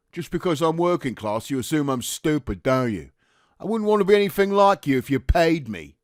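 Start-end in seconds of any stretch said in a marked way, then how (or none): 3.6-6.0 high, loud Cockney rejection; angry retort. Acted. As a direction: fling it back in anger. Private rejects the officer, quarrelling.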